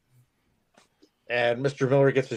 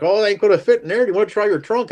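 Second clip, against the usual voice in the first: higher voice; 6 semitones higher, 6 dB louder, faster than usual. Retold or imitated. Mr. Miller voiced in story.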